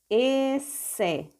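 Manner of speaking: "Esse" split into a long e, then se; syllable by syllable. Shown as a demonstration. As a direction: sound out "Esse" in two slow beats. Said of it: "vamos ler passo a passo".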